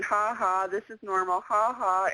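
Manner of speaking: spoken mock "ha, ha", gloating lightly; mock laughing. Guest retells teasing people all winter, mock laughing. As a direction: imitate your own teasing laugh in words. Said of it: "I was laughing at them all winter going".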